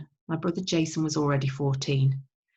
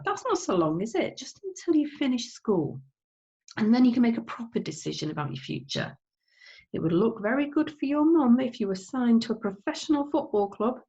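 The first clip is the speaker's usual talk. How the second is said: coaxing Dad; 5 semitones higher than usual. Acted. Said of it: "suggested Dad".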